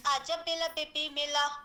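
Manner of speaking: put-on lightly lisped cooing at a baby; mock-coo r turned to l, a bit slow; baby talk. Adult cooing to a small child at home, lightly lisped. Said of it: "हम क्या बोलते हैं".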